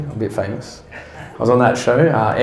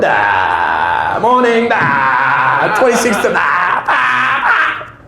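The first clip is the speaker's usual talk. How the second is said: stammering pilot; 4 semitones higher, much slower than usual. Retold or imitated. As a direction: stammer through it in a hammed pilot voice. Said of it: "see a pilot go to the doctor".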